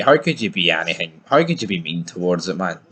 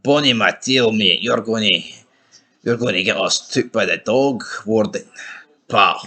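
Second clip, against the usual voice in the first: Scottish dog voice. Retold or imitated. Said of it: "He's like".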